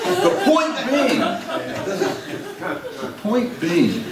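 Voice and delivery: words breaking up in real laughter; laughing while talking. Real, not acted. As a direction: try to go on but keep laughing. Laughing through own joke.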